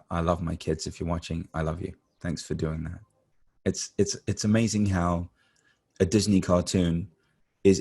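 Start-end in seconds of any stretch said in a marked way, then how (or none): 0.1-3.0 soft, lower, affectionate words; tender aside. Real, not acted. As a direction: drop the voice softly for a loving thank-you. Message to the speaker's own kids.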